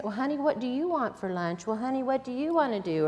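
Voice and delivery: put-on doting mother asking her child what it wants, sweetly; mock doting mom. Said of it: "everything's around the child".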